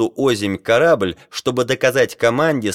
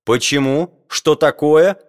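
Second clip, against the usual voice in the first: higher, louder indignant questions; startled cry; 5 semitones higher, 4 dB louder than usual. A narrator's reading. Geographer shaking off the sailor's hand, crying out. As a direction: demand an answer, voice rising. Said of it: "крикнул Леруа".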